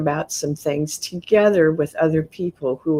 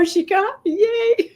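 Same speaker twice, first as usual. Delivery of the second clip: cheering beings. Retold or imitated. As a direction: cheer like a proud crowd. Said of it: "They're all clapping and go".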